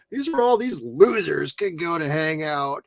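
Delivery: rousing speech, rising to a cry; impassioned speech. Retold or imitated. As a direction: deliver it like a rally speech. Quoting the city hall speech.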